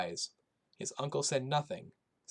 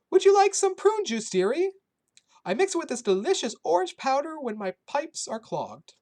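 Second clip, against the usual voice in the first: put-on high, loud old Polish woman's accent; kindly old woman with a thick Polish accent; 10 dB louder than usual. A narrator's reading. Shelter cook greeting the boy in a thick Polish accent. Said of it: "in her thick Polish accent".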